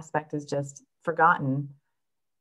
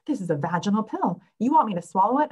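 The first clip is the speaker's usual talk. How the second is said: incredulous patient; 5 semitones higher, 5 dB louder than usual. Retold or imitated. Patients quoted doubting the pill.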